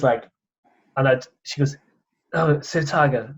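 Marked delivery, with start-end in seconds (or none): 2.3-3.3 a light English accent, playing the interviewer; mild put-on English accent for the question. Doing the English interviewer's English accent to Tiger. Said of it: "this is my English accent".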